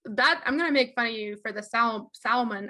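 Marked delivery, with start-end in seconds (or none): 2.1-2.7 "salmon" as SAL-uh-mun, three syllables; "salmon" with an extra middle syllable; botched mispronunciation. Shown as a demonstration. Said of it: "I can't even say it".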